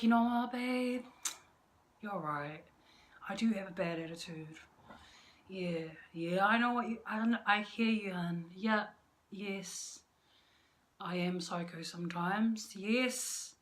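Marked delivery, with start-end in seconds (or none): 0.0-10.0 soft admitting. Retold or imitated. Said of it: "I could be like".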